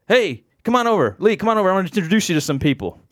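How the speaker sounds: high, hurrying invitation; imitated calling over. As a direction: wave a friend over with your voice. Friend calling him over.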